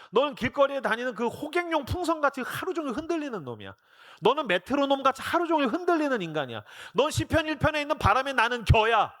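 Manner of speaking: high-pitched, exasperated tirade; mock berating. Jesus scolding fickle Peter, mock exasperated tirade. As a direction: pile up insults as if fed up.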